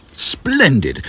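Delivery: a first, lighter splendid; mildly bubbly. A narrator's reading. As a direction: warm up to the excitement. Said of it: "bubbled the professor".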